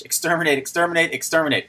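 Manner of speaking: hammed-up robot exterminate. Shown as a demonstration. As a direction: imitate a Dalek robot. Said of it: "I'll do the robot voice".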